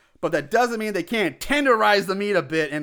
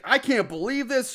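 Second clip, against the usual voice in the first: mildly indignant retelling, pitched up; mock outrage; 4 semitones higher than usual. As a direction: imitate someone flipping out, without real force. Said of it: "And Andy flips his".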